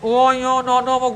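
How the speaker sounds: nasal letters with the nose blocked; nose held shut. Shown as a demonstration. Teacher showing students nasals need air through the nose, nose held shut. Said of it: "আমি নাক বন্ধ করে".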